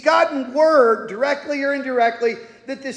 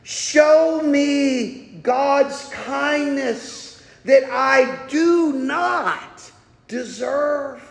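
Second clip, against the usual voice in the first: slow plea for mercy; much slower than usual. Acted. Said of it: "He cries out for mercy".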